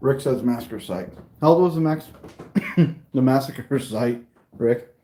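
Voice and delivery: talking with a mouth full of food; words round a bite of food. Real, not acted. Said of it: "Don't talk with your mouth full".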